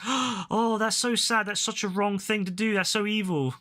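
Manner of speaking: a hint of a fake shocked tweeter; lightly mock the pearl-clutching posts; mock Twitter outrage. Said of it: "all you'll see on Twitter is".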